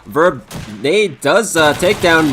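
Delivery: fast, lively play-by-play; esports caster. Acted. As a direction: call the round live, energetic. Live play-by-play of the round.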